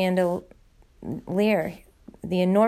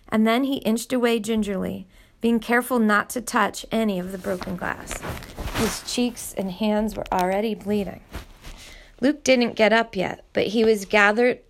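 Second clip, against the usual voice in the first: steady read-aloud storytelling; story narration. A narrator's reading. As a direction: read the chapter to your listeners evenly. Reads a novel chapter aloud.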